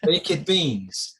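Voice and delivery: "baked" as two syllables, bake-ed, to rhyme with naked; imitated Spanish-accented "baked", stretched out as bake-ed; mispronounced baked. Friend asking a shopkeeper for baked beans, mispronounced as bake-ed. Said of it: "he quotes in his s-, sort of Spanish accent".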